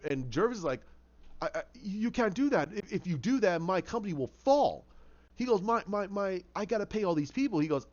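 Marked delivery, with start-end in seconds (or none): 1.4-4.8 pleading protest. Acted. Jervis begging his backer not to pull funding, pleading. 5.6-7.6 stammered, hurried higher plea; flustered pleading. Acted. Desperate employer pleading about his payroll, flustered.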